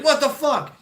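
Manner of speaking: high, loud startled outburst; imitated shock. MPs seeing a man dangle from a rope, mock shock. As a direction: blurt it out, mock appalled. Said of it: "the M Ps are like".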